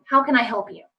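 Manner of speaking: even voice at normal volume; calm, unscreamed question. Shown as a demonstration. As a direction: offer help calmly, no screaming. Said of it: "Just be like".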